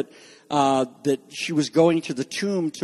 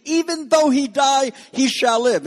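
emphatic; 9 semitones higher, 3 dB louder than usual. Acted. Preacher acts out Jesus' declaration.

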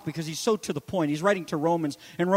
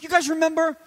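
high, teasing snark; a knowing little jab; divine snarkiness; 9 semitones higher than usual. Retold or imitated. Jesus needling the Sadducees with playful snark. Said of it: "little divine snarkiness".

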